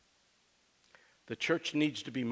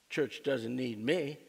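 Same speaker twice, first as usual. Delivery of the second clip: slow, lightly put-on Southern accent; a hint of a Southern drawl; slower than usual. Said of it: "That was my southern accent".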